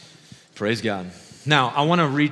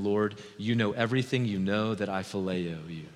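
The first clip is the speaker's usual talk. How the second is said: subdued, slowing admission; grieved answer; 2 semitones lower, 3 dB quieter than usual. Acted. Grieved Peter answering Jesus the third time, subdued. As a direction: answer with understated grief, sinking at the end. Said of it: "Peter was grieved".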